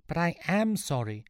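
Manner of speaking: high-pitched squeak of protest. A narrator's reading. Sean pleading with the angry mob, squeaking. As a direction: squeak out a small apology. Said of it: "Sean squeaked out".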